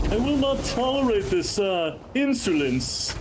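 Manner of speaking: high, grand indignation; royal outrage. Pretend. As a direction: rage like a king.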